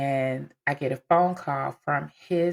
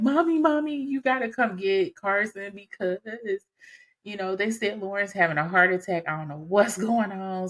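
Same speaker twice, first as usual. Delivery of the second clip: panic; 5 semitones higher than usual. Retold or imitated. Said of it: "in a full panic".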